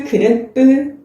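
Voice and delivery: 뿌 said as a tense unaspirated p; 뿌 with a tight p, without aspiration; tense p sound. Shown as a demonstration. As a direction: clip the p in 뿌 short and tight, no puff of air. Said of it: "발음이 된다라는 법칙".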